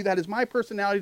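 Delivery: usual speaking voice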